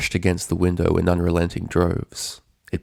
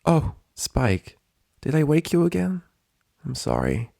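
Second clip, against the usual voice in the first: teary Twilight; 8 semitones higher than usual. A narrator's reading. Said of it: "wiped the tears from her eyes".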